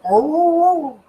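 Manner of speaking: high yappy mock bark; imitating barking. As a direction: bark it out like a small dog. Voicing the dog's bark.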